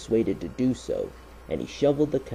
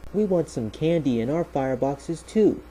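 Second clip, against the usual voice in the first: higher-pitched eager demand; 7 semitones higher than usual. A narrator's reading. Thomas the engine wanting candy in his firebox too, demanding. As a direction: insist on getting a share too. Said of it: "demanded Thomas".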